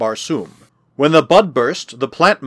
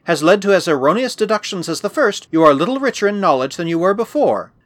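put-on higher-pitched voice of a disdainful girl; haughty girl; 5 semitones higher than usual. Girl belittling the narrator's deductions, haughty. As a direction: play the proud girl, pitched up.

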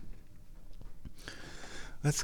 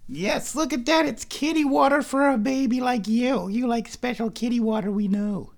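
very high, cutesy sustained coo; 11 semitones higher than usual. Real, not acted. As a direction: fuss over a kitty in a squeaky voice. Baby-talking the cat.

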